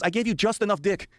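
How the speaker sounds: emphatic comic retelling of an alien's rant; lightly voiced mouthy alien. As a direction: lightly imitate an alien setting someone straight. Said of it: "And he goes".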